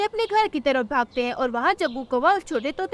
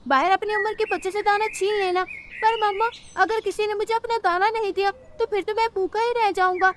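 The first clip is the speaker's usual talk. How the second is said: higher, lively cartoon voices, bossy mother; young crow and his mother; 5 semitones higher than usual. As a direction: voice the cheeky crow chick and his pushy mom. (कौवे का बच्चा और उसकी माँ)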